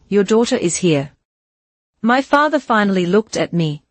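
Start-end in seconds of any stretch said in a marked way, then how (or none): 0.1-1.0 soft southern drawl. A narrator's reading. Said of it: "her voice a soft southern drawl".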